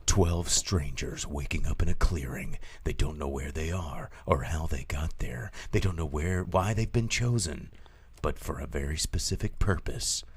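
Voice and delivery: low, hushed trailer narration; quiet, ominous film teaser voice; movie trailer read. Acted. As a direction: intone the premise softly, with weighty pauses. Reads the movie premise like a trailer.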